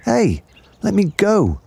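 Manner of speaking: high squealing crocodile yell. Acted. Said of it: "yelled the enormous crocodile".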